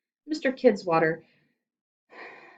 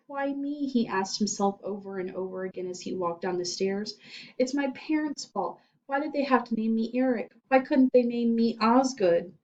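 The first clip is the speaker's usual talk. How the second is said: put-on self-pitying boy; 5 semitones higher than usual. Frightened boy laments.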